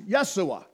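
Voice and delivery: Yeshua with stress on SHU; Hebrew stress. Shown as a demonstration. Preacher placing the Hebrew stress. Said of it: "putting the emphasis where it is".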